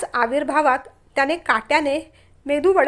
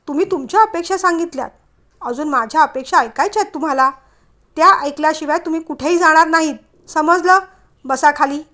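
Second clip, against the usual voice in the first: firm command; 2 semitones higher, 5 dB louder than usual. Acted. She firmly orders him to sit.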